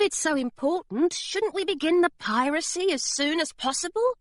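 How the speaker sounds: high, eager little gargoyle; a keen small creature pressing for piracy. Acted. Gargoyle urging the crew to start pirating, high and eager.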